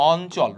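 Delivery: অঞ্চল split as "on" and "chol"; broken into parts. Shown as a demonstration. Teacher breaking the word up for students, অঞ্চল in two parts. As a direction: say অঞ্চল syllable by syllable. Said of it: "অঞ্চলকে ভাঙি".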